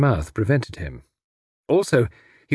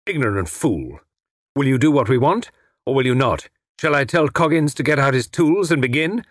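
impatient villain; 4 semitones higher than usual. Acted. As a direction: press the captive with restrained impatience. Villain loses patience.

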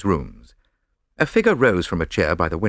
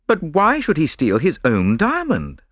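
higher-pitched, mildly baffled question; puzzled; 9 semitones higher than usual. A narrator's reading. Friend questioning the detective's solution, puzzled. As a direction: ask with a touch of bewilderment. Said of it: "I asked, puzzled".

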